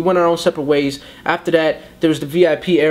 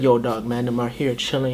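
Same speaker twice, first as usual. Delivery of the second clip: put-on New York accent; 5 semitones lower, 5 dB quieter than usual. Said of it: "he had the New York accent".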